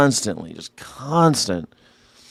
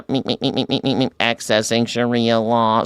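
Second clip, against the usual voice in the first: beeping mock robot voice; light joking robot bleeps; robot computer. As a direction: pretend to be a computer searching its memory. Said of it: "check my memory banks".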